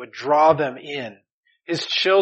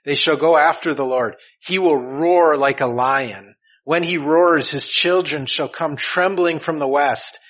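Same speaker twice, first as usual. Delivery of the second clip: loud, emphatic scripture reading; 5 dB louder than usual. Acted. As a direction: proclaim the prophecy from the pulpit. Reads scripture aloud forcefully.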